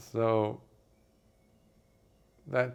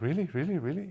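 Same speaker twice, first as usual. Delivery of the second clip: rising, eager "really" repeated, pitched up; excited disbelief; 6 semitones higher, much faster than usual. Retold or imitated. Poor friend hearing about the gold, excited and disbelieving. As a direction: gasp it out like you can't believe your luck. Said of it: "now the person is so excited".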